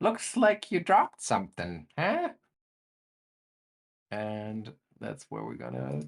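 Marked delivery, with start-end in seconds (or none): 0.0-2.3 squeaky, tiny, very high, swooping impish voice. Game master voices an unseen presence behind Luca on the stairs: tiny little voice. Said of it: "you hear that tiny little voice again".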